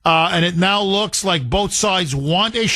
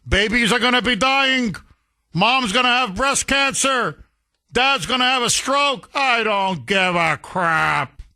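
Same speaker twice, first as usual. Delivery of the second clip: lightly voiced mock callous president, a bit higher; 4 semitones higher than usual. Host mocking the congresswoman's claim about Trump, lightly mock callous. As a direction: sneer it out like a heartless villain. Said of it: "Oh, what?".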